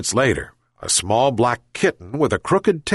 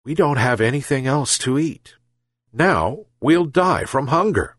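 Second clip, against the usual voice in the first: sad; 3 semitones higher than usual. Acted. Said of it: "sadly said".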